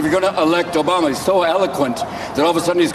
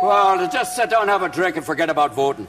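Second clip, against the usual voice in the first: put-on Irish accent.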